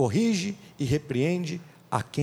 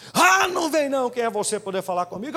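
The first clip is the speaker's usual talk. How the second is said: indignant retort; 5 semitones higher than usual. Acted. Fool rejecting a correction.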